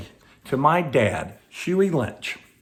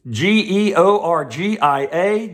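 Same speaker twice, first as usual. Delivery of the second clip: spelling it out slowly; 4 semitones higher, 4 dB louder, slower than usual. Shown as a demonstration. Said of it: "What does that say?".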